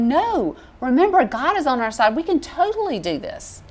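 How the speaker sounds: rally them with lifted pitch; confident protest. Retold or imitated. Preacher voices two spies urging the people on, confident protest. Retelling Joshua and Caleb's protest.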